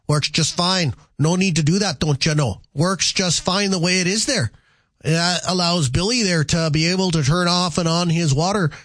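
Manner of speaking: put-on folksy Minnesota accent. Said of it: "Said with my best Minnesota accent".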